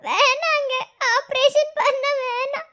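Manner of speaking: pleading, voice catching on tears; tearful pleading. Acted. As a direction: beg him not to spend the money. Wife pleads against operation. (அழுகையுடன் கெஞ்சும் மனைவி)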